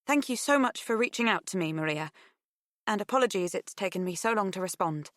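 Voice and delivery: tentative on the phone; nervous young woman. Acted. Pip on the phone.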